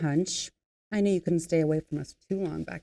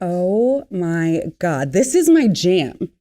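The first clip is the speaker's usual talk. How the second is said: excited squeal; 9 dB louder than usual. Acted. Hears her favourite song playing.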